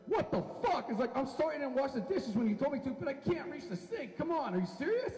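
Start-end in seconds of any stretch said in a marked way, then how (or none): 0.1-0.9 put-on high-pitched child's disbelief; shocked outburst. Boy whose mom hands him over, shocked. 1.2-5.2 put-on pleading child. Child self pleads with mom.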